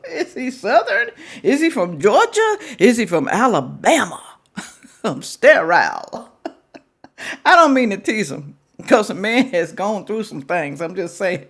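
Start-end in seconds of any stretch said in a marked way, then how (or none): 5.0-6.3 "sterile" slowly as stair-rral, louder; teasing "sterile" as stair-rral; mocking his pronunciation. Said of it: "Is it sterile or sterile".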